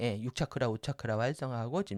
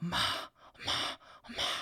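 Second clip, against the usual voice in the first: breathy whisper like air leaking out; 4 semitones higher, 4 dB quieter than usual. Demonstrating a whispering vocal exercise, in a breathy whisper. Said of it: "이게 속삭이는 소리입니다".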